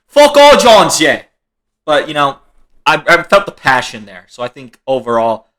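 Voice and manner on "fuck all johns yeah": very high, loud mocking retort; mock angry shout. Imagined rival taunting John for doing nothing, mock angry shout. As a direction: burst into a hammed-up taunting shout.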